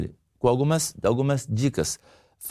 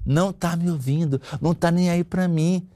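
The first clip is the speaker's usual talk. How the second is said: higher, mock complaint; irritated women; 5 semitones higher than usual. Wives complain of not being heard, mock irritated. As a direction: imitate a mildly irritated wife. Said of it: "o que mais irrita as mulheres".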